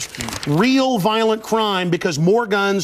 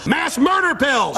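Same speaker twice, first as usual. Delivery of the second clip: shouted words in a hammed-up British accent; mock British accent; 6 semitones higher, slower than usual. Arguing with the British host in a shouted mock British accent. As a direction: lapses into a mock British accent mid-rant. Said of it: "I can speak in this accent as well".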